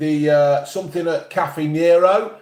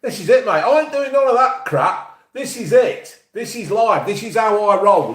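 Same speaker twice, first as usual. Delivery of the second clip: higher, cocky mock bravado; mock swagger; 6 semitones higher than usual. Host brags to the listeners that he needs no studio, mock swagger. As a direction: brag like a big shot with no studio.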